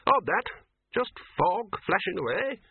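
a hearty host waving off the hunt; Ridcully's voice. Acted. Ridcully puzzled.

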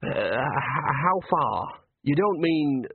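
stammered, hopeful question; tentative, breaking off unfinished; hesitant, savouring. Acted. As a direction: barely dare to ask. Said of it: "Bucket hesitated, savouring the idea".

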